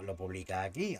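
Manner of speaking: ordinary delivery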